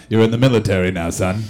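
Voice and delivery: low, fast gruff sergeant voice; gruff drill sergeant. Pretend. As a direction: growl it like a recruiter. Gruff recruiter voice quoted.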